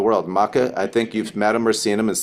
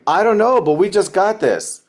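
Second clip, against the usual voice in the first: much higher, bright-eyed mock clueless voice; clueless new recruit; 9 semitones higher, 4 dB louder than usual. Recruit answering a friend's question in a high, giddy clueless voice. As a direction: play the giddy newbie who has no idea.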